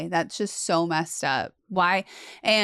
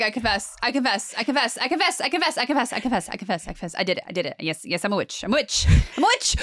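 rushed, pleading confession, pitch climbing; hammed-up desperate confessing; mock frantic confession; much faster than usual. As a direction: babble it out like a broken prisoner. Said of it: "I'm like".

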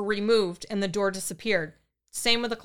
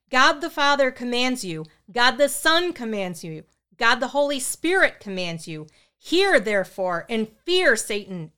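booming command; 2 semitones higher, 4 dB louder than usual. Acted. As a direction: thunder the rite at the spirit. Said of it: "in a loud, booming voice".

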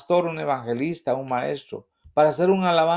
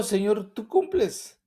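raised grateful prayer; 7 semitones higher, slower than usual. Retold or imitated. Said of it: "yo digo".

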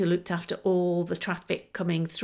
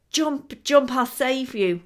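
higher, louder call down from a helicopter; 6 semitones higher, 4 dB louder, slower than usual. Acted. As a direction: shout the rescue offer over the noise, slowing on the second part. Rescuer calls from helicopter.

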